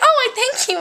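her chipmunk voice. Retold or imitated. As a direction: lightly mimic her chipmunk talk. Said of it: "in her voice".

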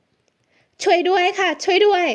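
high, slow, drawn-out calls for help; crying for help. A narrator's reading. Heroine trapped in his car screams for help. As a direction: wail for help to anyone passing. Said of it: "ใช้ปากเป็นอาวุธแทน".

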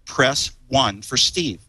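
slow, measured automated greeting; phone menu prompt. Retold or imitated. Steve demoing his call-screening message, slow robotic prompt. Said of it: "I have the ability to say".

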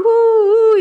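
long high-pitched "woo"; woozy high whoop; dizzy woo. Retold or imitated. Imitating how faint she felt.

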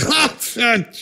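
high, soft, squeezed cry; mock pained swearing. Patient during the procedure, mock pained outburst. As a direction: squeeze it out as if hurting.

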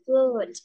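"Flute" with a clear long oo vowel. Shown as a demonstration. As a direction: stretch the oo in "Flute". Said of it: "Âm U mà hả?".

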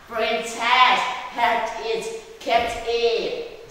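loud, high frog announcement; shouting frog. Acted. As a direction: call out triumphantly to the princess. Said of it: "shouted the frog".

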